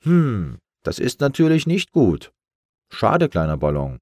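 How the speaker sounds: high, gently regretful jellyfish; sorry to let the little balloon go. Acted. (hohe, bedauernde Quallenstimme)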